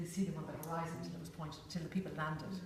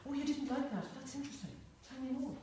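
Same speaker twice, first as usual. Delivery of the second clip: curious and centred; 7 semitones higher, 5 dB quieter than usual. Retold or imitated. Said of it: "rather than".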